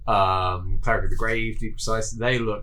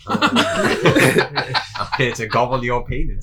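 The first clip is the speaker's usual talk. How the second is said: goblin voice; 3 semitones higher, 5 dB louder, much slower than usual. Pretend. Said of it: "Penis goblin".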